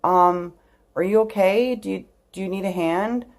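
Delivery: lightly voiced hesitant passer-by checking on someone; concerned stranger. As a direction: ask carefully, as if approaching someone upset. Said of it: "And he was like".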